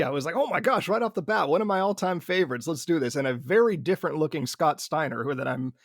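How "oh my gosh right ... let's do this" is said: high-pitched excited reaction, settling as it goes; thrilled. Retold or imitated. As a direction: relive a fan's giddy delight, starting high. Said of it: "I was thrilled to see Booker T".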